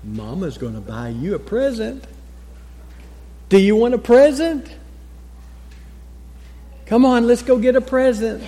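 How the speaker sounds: soft reassuring. Retold or imitated. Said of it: "in a soft, reassuring voice".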